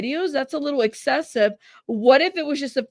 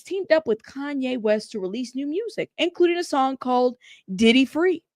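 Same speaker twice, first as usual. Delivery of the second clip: lightly voiced news anchor. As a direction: read it out like a TV news report. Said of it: "let me get my best anchor voice".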